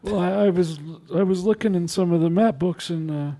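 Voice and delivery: a lightly voiced old man, easily distracted. GM holds old man NPC voice.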